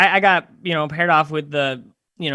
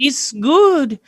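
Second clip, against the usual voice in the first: higher-pitched mock Eastern European accent; put-on Eastern European English; 7 semitones higher than usual. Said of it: "she looked like Eastern European Snooki".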